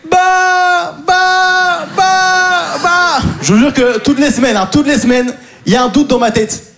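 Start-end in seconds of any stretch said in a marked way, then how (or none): 0.1-3.2 squeaky repeated bah, much higher; high-pitched mock stutter. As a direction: chirp the syllables like a cartoon. Imite l'exercice de l'orthophoniste. (bah aigu et répété, version parodique)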